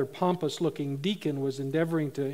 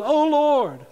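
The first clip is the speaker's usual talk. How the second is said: mumbled prayer; 7 semitones higher, 7 dB louder, slower than usual. Acted. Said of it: "the boy bowed his head and mumbled".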